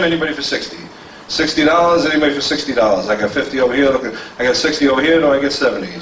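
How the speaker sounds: steady rolling auction patter, asking the room for bids; auctioneer bid calling. Acted.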